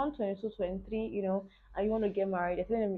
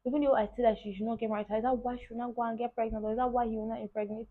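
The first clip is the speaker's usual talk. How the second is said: raised, fast, exasperated dad voice; a hint of an angry father, quick and raised; angry dad quote; 4 semitones higher than usual. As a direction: mimic a furious father ranting. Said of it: "he was so angry".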